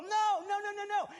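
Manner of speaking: high shouted denial; emphatic shout. Real, not acted. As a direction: cut them off hard, no no no. Preacher refuting the listener.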